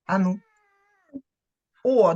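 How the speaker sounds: ordinary delivery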